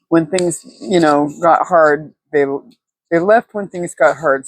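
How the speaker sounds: stumbling, tongue-tied restart. Real, not acted. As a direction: trip over the words, then restart. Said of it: "Sorry, I'm tongue-tied".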